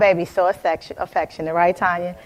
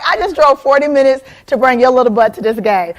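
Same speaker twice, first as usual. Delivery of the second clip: loud, high outraged mom; the ego blowing up at her kid; mock outrage, loud and high; indignant ego; 4 semitones higher, 6 dB louder than usual. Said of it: "My ego is like".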